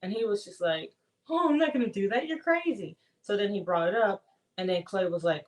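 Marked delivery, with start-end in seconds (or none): 1.3-3.0 higher, mildly incredulous retort; mock indignant refusal. Retelling how he refused her dare, mock indignant. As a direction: imitate him scoffing at the idea.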